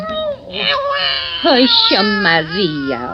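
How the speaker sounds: calm the little one down gently; hushing a baby. Acted. Mother hushing her crying baby.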